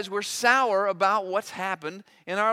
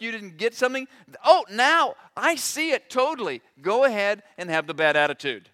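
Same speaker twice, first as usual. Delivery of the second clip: louder, sarcastic mock sympathy; mock sympathetic God; 4 semitones higher, 5 dB louder than usual. Preacher mocks God excusing bad attitude, sarcastic. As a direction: ham up a fake understanding God.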